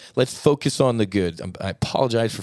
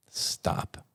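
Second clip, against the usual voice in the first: whispered stop; 7 dB quieter than usual. Real, not acted. Pleading for violence to end.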